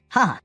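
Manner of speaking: short high chuckle; a quick amused ha ha; light laugh. A narrator's reading. Narrator voices laughter.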